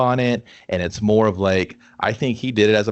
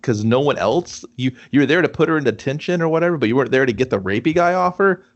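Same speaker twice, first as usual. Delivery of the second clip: indignant; 5 semitones higher than usual. Retold or imitated. Voicing indignant complaint to teacher.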